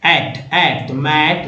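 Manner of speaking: एट said slowly twice before मैट; धीरे से एट, एट; slow sound demo. Shown as a demonstration. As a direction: stretch एट out clearly. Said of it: "एटी को एट बोलते हैं".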